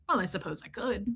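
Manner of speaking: soft, muted imitated reply; reluctant man impression. Man relenting to the little girls, soft imitated voice. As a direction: give in quietly, in another voice.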